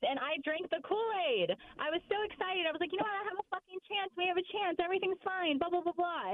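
high, eager retold hope; mock giddy fan, voice way up; giddy excitement. Sports podcast guest recalling her excitement, giddy and high.

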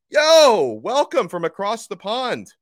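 over-the-top mock British accent; bad British accent. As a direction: put on a cartoon British accent for a London listener. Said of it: "I tried to, to imitate the accent over there".

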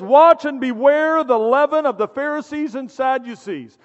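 a hint of commanding teacher, drawn out; Jesus voice. Jesus warns his disciples, slow and weighty. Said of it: "in his Jesus voice".

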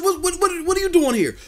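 high, stammering mock disbelief; retold shock. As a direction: act out being caught off guard at the door. Brother suddenly at his door.

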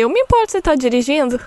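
alarmed thought. Retold or imitated. Alarmed thought, friend is driving.

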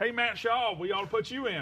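put-on a light Southern accent heckle; Southern drawl heckle. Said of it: "in a Southern accent".

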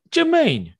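squeaky high mock call of the name; high falsetto call. Calling out in mock voice.

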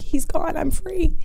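high, lifted voice of relief; relieved outburst. Retold or imitated. Telling the hosts her thought as he left, high and relieved. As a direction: let the relief lift the pitch up high.

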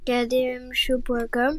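distant, off-mic voice; far from mic. Real, not acted. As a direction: speak from too far away. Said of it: "t'es loin du micro".

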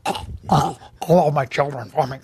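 a hammed-up dying wail; mock dying moan. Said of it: "I'm going".

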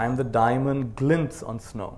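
slow, measured reading of a poem, line by line; poem recitation. Acted. Teacher leads the audience through a memorized poem, slow recitation. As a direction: recite it slowly so the room can echo you.

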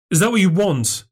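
lightly voiced sister, pointed; challenging sister. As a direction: challenge her coolly. Claire challenging narrator.

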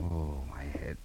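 pained whisper after the knock on the head; groggy whisper of pain. Acted. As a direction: breathe it out, head throbbing.

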